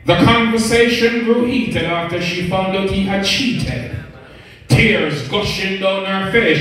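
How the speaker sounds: rhythmic storytelling in verse; spoken-word poem. Acted. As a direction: recite a dramatic tale of betrayal in rhyme. Performs a narrative poem.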